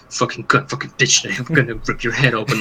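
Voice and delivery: imitating a low, tense, seething rant; a hint of low simmering rage; low tense fury. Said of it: "the voice goes down, like, tense".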